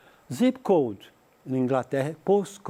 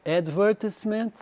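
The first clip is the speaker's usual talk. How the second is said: advertisement stressed on the second syllable, "adVERtisement"; British advertisement; 4 semitones higher than usual. Shown as a demonstration. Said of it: "diferença de som".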